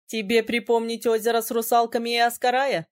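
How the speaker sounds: lightly voiced prince, teasing and cheerful; cheerful question. A narrator's reading. Prince teasing the heroine about her past mishaps, cheerful. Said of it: "весело спросил Ирас".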